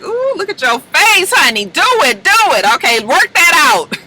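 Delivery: high, whooping imitation of a teasing host; playful needling. Pray Tell picks at angry Damon on the floor, imitated teasing. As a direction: egg him on in a high, sassy voice. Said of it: "Pray Tell is picking at him".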